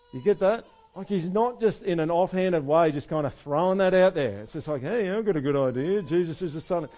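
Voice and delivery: tossing the claim out like a breezy idea; lively mock casual claim. Preacher to congregation, mocking a breezy offhand claim.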